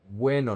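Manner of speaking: "Bueno" with UE in one glide; joined diphthong. Shown as a demonstration. Teacher stresses diphthong matters, "Bueno" in two syllables. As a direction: say "Bueno" as BWE-no. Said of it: "The diphthong is important".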